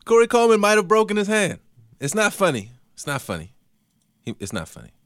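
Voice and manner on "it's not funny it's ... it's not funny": holding back laughter. Real, not acted. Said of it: "this is why I laugh".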